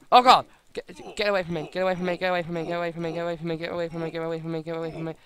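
frantic repeated plea; panicked. Real, not acted. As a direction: flee in a panic. Fleeing attacker in panic.

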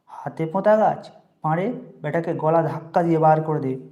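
scornful echo, then a loud order; mocking anger. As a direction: sneer at the boy's words, then throw him out. Landlord mocks and orders boy out. (বিদ্রূপ করে জোরে হুকুম)

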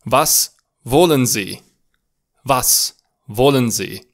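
slow, clear German Was wollen Sie; slow model answer. Shown as a demonstration. Teacher models the answer for students to repeat, slowly. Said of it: "Spuneți-l cu voce tare".

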